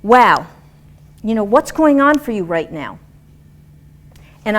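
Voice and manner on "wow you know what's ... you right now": dynamic question. Retold or imitated. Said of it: "I would have asked the question".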